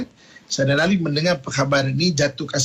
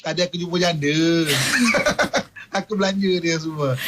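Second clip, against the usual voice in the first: sheepish laugh. Acted. Husband confesses, laughing.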